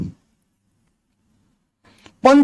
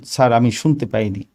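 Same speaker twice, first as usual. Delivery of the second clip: lower, slightly softened, courteous request; polite request; 5 semitones lower than usual. Shown as a demonstration. Candidate asks the examiner to repeat the question, politely. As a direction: ask deferentially, keeping the voice low. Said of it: "Just ভদ্রভাবে বলবেন".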